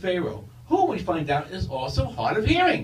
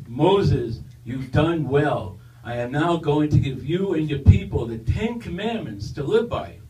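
booming voice; 4 semitones lower, 4 dB louder than usual. Acted. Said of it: "a booming voice says".

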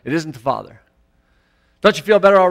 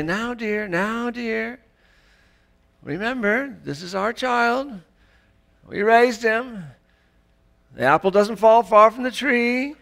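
much softer, gentle coaxing; soft pleading mother; 3 semitones higher, 4 dB quieter, slower than usual. Retold or imitated. Mother softly calming her husband about their child, gentle coaxing.

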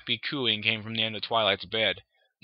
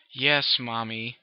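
resigned daughter; much slower than usual. Acted. Resigned reply.

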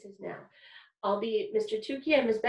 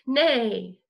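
loud horse neigh, falling in pitch; 4 dB louder than usual. Shown as a demonstration. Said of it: "make the sounds".

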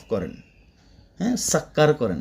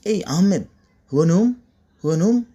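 Arab asking; 4 semitones higher, 4 dB louder than usual. Retold or imitated. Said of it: "সে just এভাবে বলবে আপনাকে".

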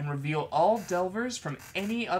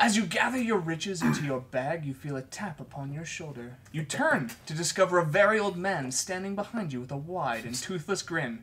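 story narration. Acted. Game master reads the card.

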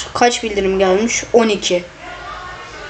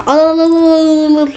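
excited urging; 4 semitones higher, 3 dB louder than usual. Real, not acted. Urging himself in game.

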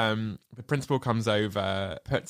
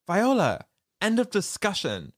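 put-on firm boyfriend; 9 semitones higher, 3 dB louder than usual. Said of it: "her boyfriend's like".

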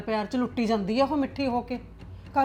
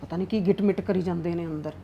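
grumbling aside to herself; 4 semitones lower than usual. Acted. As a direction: sulk and plot under her breath. Mother-in-law grumbles alone, scheming. (ਨੂੰਹਾਂ ਬਾਰੇ ਇਕੱਲੀ ਬੁੜਬੁੜਾਉਂਦੀ ਸੱਸ, ਨੀਵੀਂ ਸੜੀ ਹੋਈ ਅਵਾਜ਼)

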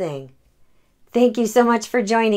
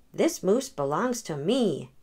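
prim explaining; 3 dB quieter than usual. Acted. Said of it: "he explained".

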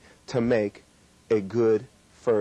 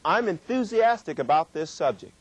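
brighter, higher and more emphatic; 5 semitones higher than usual. Shown as a demonstration. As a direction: sound enthusiastic about the topic. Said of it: "A high-pitched and emphathet-, emphatic voice".

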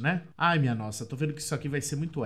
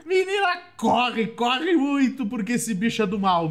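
urgent urging; 6 semitones higher, 5 dB louder than usual. Real, not acted. Ainda mandando Lara fugir.

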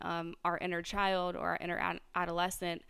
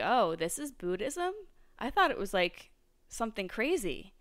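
retold surprise; 4 semitones higher than usual. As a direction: pitch lifting in mild disbelief. Retold surprise at discovering Buddhism.

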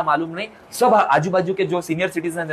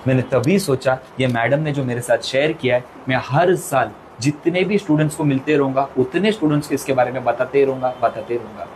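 lower, slow sincere closing; sincere moral; 5 semitones lower than usual. Acted. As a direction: land the moral slowly and earnestly. Emotional moral ending. (धीमा, सच्चे मन से सीख)

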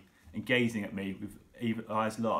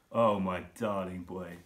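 said softly; 4 semitones lower than usual. A narrator's reading. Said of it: "he said softly".

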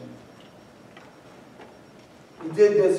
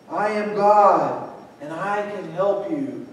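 voice of God. Acted. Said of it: "And the voice replies".

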